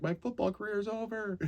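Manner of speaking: high, soft, despairing mock wail. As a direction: whimper it like a ruined athlete. Lying hurt, self-quote.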